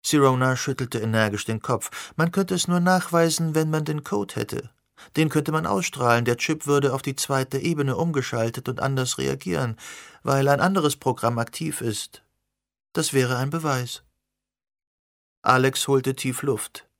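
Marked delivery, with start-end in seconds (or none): 2.2-14.0 put-on young woman voice. Sirona voiced higher than narration.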